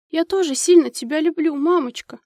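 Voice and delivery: a mild quiver, close to crying; trembling voice. A narrator's reading. Girl telling her sick mother she loves her, trembling. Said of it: "дрожащим голосом выговорила девочка".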